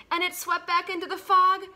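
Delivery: dramatic. A narrator's reading. Dramatic boat swerve in story.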